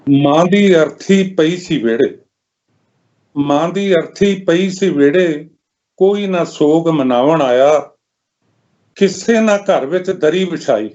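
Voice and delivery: measured lament in verse, pausing between lines; mournful poem recitation. Acted. Poet telling of a mother's lonely funeral, mournful recitation.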